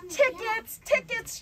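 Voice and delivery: high chirpy usher voice; lady at the door calling for tickets; chirped. A narrator's reading. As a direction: chirp it brightly. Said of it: "chirped the lady at the door".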